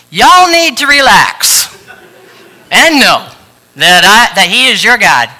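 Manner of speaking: slow, loud, hammed-up Southern drawl; mock Southern drawl reading the verse. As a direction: preach it like a country cowboy, loud and slow. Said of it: "like the Southern drawl".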